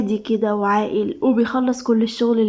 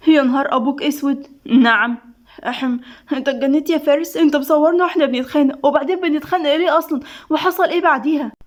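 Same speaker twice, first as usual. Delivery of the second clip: higher-pitched, flustered demands; shocked outrage; 4 semitones higher than usual. Acted. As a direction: react in alarm, pitch climbing as the questions pile up. Shown a recording of their fight. (بصدمة واستنكار)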